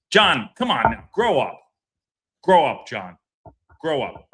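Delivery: loud, exasperated "grow up"; telling John off. Real, not acted. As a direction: snap it at him like a scolding friend. Yelling at John on stream.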